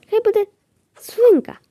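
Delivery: high, excited naming; delighted. Real, not acted. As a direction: squeal out the name with delight. Names new pet.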